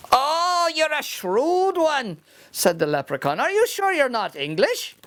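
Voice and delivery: high, cagey little voice; sly leprechaun. Acted. Leprechaun denies his gold to Seamus in a high sly voice. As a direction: play innocent, high and quick.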